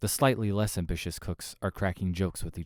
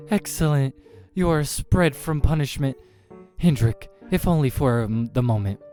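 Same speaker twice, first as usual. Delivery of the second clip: loud, high pronouncement; a grand creature granting mercy; imperious demon; 7 semitones higher, 8 dB louder than usual. Acted. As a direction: declare it loudly, pitched up. Demon pronounces Hendrik spared.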